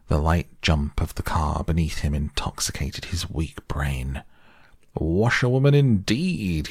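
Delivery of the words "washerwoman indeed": high, loud, wild-voiced shout; reckless shout. A narrator's reading. Toad speeding off in the stolen car, reckless shout. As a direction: fling it out recklessly at full speed. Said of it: "he shouted recklessly".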